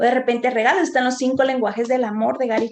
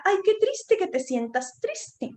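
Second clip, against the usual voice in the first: mock sympathetic client; 6 semitones higher, slower than usual. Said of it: "me decía".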